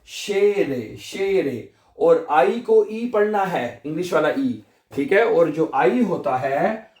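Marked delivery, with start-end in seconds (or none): 0.1-1.7 शेरे with a long, clear "ay"; E read as "ay". Shown as a demonstration. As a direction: repeat शेरे as "shay-re" for learners. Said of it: "ई को आपने ए पढ़ना है".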